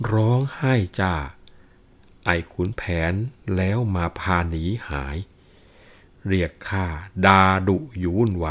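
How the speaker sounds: measured Thai verse reading; lilting storyteller's recital of a classic poem; poetry recitation. A narrator's reading. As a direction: read it as rhymed verse, phrase by phrase.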